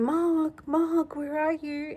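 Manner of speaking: high calling voice, a mock call across the garden; calling the cat. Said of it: "Sometimes I'd go and call him".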